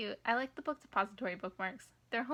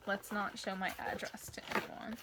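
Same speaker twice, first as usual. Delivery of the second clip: soft hushed whisper; 6 dB quieter than usual. Real, not acted. Vlogger hiding her address on camera, whispered. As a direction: whisper it like a secret.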